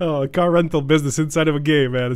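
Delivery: speaking through laughter. Responding to another speaker's explanation, laughing. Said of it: "I'm laughing here".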